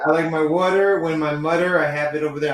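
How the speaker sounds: attempted Philadelphia accent; practised Philadelphian accent. Shown as a demonstration. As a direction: have a go at a Philly accent. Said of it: "working on my Philadelphian accent".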